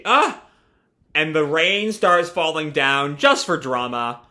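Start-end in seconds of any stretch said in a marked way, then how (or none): 0.0-0.4 short, high mock yelp of fright; startled yelp. Michi scared by a lightning flash, startled yelp. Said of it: "that scares Michi".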